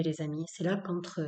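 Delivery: ordinary delivery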